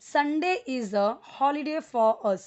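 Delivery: very slow, each word set apart; slow model sentence. Shown as a demonstration. Teacher reading the example slowly to the class. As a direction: read it slowly for learners to copy. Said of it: "model sentence for learners".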